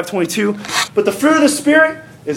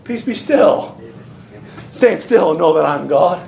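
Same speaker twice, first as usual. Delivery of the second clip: measured authority after the outburst; calm command; 4 semitones lower than usual. Acted. Jesus stills the storm and the people, calm command.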